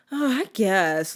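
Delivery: slow, drawn-out mock reluctance; pretend annoyance. Sarcastic kid answering mom's request, pretend annoyed. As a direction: act mildly put upon, sarcastically. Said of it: "pretend I'm a little annoyed with people".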